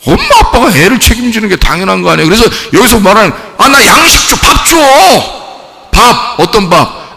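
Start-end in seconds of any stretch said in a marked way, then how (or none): 3.6-6.4 pitched-up whiny demand for food; child pestering dad for food. Acted. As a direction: beg like a greedy kid.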